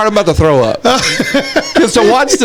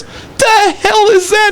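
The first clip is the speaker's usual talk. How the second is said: high, drawn-out mock bafflement; slow, pitched-up incredulous question; retold disbelief; 10 semitones higher, slower than usual. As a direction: act out a baffled dealer. Dealer retold, baffled by duck.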